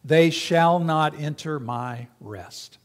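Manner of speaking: slow, weighty quote of God's oath; solemn scripture reading. Acted. Pastor slowly reading God's oath from Hebrews aloud. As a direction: read it slowly like a divine vow. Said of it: "Verse eleven of the chapter says".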